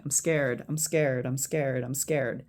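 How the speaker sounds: even, rhythmic repetition, trailing off; repeated mantra. Shown as a demonstration. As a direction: chant it over and over while tapping. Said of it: "keep repeating it over and over".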